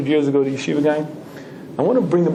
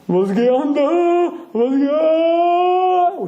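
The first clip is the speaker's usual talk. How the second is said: very high, drawn-out slow wail; terrified Shmuel; 12 semitones higher, 3 dB louder, much slower than usual. Acted. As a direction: stretch each word in fright. Shmuel as plane lifts off.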